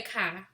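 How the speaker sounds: car said "kah", R dropped. Shown as a demonstration. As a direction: drop the R off car, open vowel. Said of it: "I don't talk like that".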